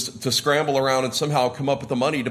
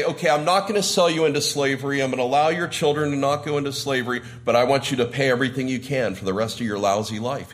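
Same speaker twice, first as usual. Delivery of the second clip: grudging king; faster than usual. Retold or imitated. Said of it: "He doesn't say that".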